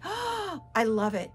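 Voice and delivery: gasp, then melt with pleasure; mock delighted swoon. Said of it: "it's just like".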